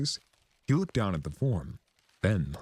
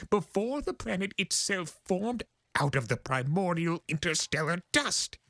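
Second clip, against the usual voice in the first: high, theatrical chaos spirit boasting of his age; grandiose Discord voice; 13 semitones higher than usual. Acted. Discord boasting to the Pegasus, high and grandiose.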